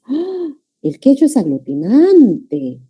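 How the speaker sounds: a high gasp of "¡Ah!", then state it in wonder; surprised ah. Shown as a demonstration. Teacher shows students what surprise sounds like: high gasped "¡Ah!". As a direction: sound amazed by a new fact. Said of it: "Mi sorpresa".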